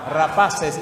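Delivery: loud laughing call-and-response; preacher laughing with the congregation. Real, not acted. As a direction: laugh while prompting the word.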